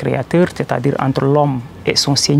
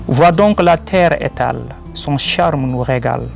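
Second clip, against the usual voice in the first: measured devotional verse, a pause after each line; poem recitation. Acted. Poet reciting his verses in praise of the Creator, poem recitation. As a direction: declaim rhymed praise line by line.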